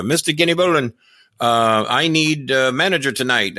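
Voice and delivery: lightly exaggerated Japanese-accented impression; fake Japanese accent. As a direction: imitate a wrestler with a put-on Japanese accent. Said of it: "fake Japanese accent".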